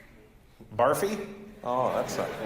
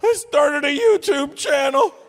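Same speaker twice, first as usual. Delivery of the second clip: put-on much higher, louder, slow whiny kid voice; whiny youngster; 12 semitones higher, 8 dB louder, slower than usual. Comic teen whining back at dad, high and loud. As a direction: whine it like a defensive teen.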